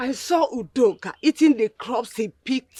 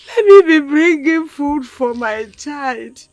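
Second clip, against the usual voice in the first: crying plea; 7 dB louder than usual. Acted. Mother grieving, crying.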